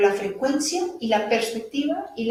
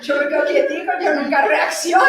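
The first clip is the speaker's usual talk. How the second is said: laughing mock; 4 semitones higher than usual. Mocking people who claim calm.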